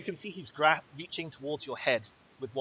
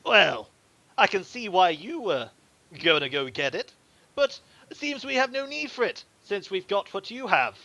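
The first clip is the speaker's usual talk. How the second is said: higher, loud and gloating; smug thug; 6 semitones higher, 5 dB louder than usual. Acted. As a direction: talk down to the captives. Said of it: "he goes".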